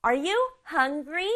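"hungry" drawn out and rising after a slow "Are you"; stress on HUNGRY. Shown as a demonstration. Teacher leads the children in practice, weight on a rising "hungry". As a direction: ask it slowly, landing on "hungry". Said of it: "여기에 강조 주는 거예요".

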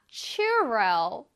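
churro as two syllables, no final s; English pronunciation. Shown as a demonstration. Teacher correcting students' churros to English, careful pronunciation. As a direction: say churro the English way, ending on an open o. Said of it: "churros가 아니라 churro라고 합니다".

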